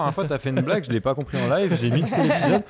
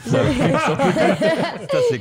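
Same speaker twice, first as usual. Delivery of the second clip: laughing; 12 semitones higher, 4 dB louder than usual. Real, not acted. Laughing at the bad connection.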